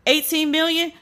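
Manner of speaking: high, stunned repeat of the sum; incredulous. Pretend. Comic hearing the eighteen million figure, incredulous. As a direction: say it like you can't believe it.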